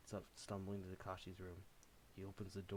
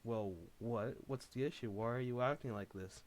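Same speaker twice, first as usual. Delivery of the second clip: raised, bewildered shout; yelling; 3 semitones higher, 6 dB louder than usual. Acted. Takashi yelling back at Davey in confusion. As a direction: push back at him, confused and loud. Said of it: "Yells Takashi".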